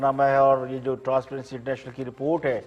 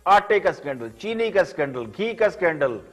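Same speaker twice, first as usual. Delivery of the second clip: measured, pointed TV commentary with falling phrase ends; pointed editorial read, phrase by phrase; scripted editorial monologue; 8 semitones higher, 5 dB louder than usual. Acted. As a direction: deliver it like a dramatic news editorial, higher than chat.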